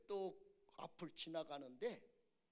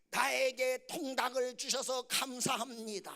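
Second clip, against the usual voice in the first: loud, chanted, raised-pitch recitation; imitated grudging prayer; 5 semitones higher, 9 dB louder than usual. Father repeats after his son, loud grudging chant. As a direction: play a father reluctantly reciting grace. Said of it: "좀 기분 나쁜데 그냥 아들이 그러니까 따라 했어요".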